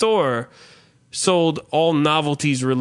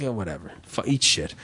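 mock dismissive brush-off; 7 semitones lower, 6 dB quieter than usual. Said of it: "And I'm like".

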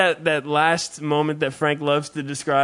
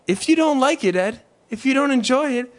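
mock preachy advice; 8 semitones higher than usual. Quoting advice heard, pitched up.

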